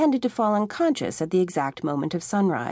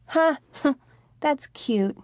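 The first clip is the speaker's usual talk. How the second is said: higher, a light scoffing laugh; amused laugh; 7 semitones higher, much slower than usual. A narrator's reading. Tommy laughs off Jody's warning, amused and higher.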